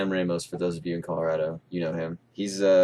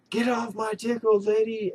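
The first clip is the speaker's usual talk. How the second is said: much higher, yelled out of nowhere; sudden yell; 13 semitones higher than usual. Retold or imitated. Pinned gamer yells the line down his mic, sudden yell. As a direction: blurt it out like a gamer yelling at a screen. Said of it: "he yells".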